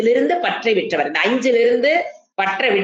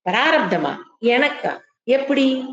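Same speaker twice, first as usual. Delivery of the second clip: light, scoffing questions; a hint of amused disbelief; dismissive wise man; 3 semitones higher, slower than usual. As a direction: brush it off as nonsense. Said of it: "என்னன்னு சொல்ல தெரியணும்".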